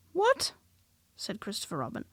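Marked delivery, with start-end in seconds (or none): 0.1-0.5 much higher puzzled What?; baffled boy. A narrator's reading. Christopher Robin to Piglet, high puzzled What.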